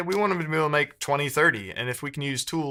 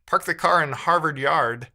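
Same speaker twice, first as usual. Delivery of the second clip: attempted Boston accent, a little louder on the stock phrase; 4 dB louder than usual. Shown as a demonstration. Streamer trying it for chat after doubting they can, Boston accent. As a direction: have a tentative go at a Boston accent. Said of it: "Boston accent".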